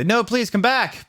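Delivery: high, slow begging; hammed-up sad plea; mock pleading. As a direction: beg her to come back, overdone. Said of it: "shouted Draco sadly".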